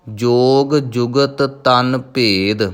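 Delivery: tiny break between ਜੁਗਤ and ਤਨ, both ਤ sounded; slight pause. Shown as a demonstration. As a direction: pause a little after ਜੁਗਤ before ਤਨ. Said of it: "ਥੋੜ੍ਹਾ ਜਿਹਾ ਰੁਕ ਕੇ". (ਜੁਗਤ ਤੋਂ ਬਾਅਦ ਥੋੜ੍ਹਾ ਰੁਕ ਕੇ)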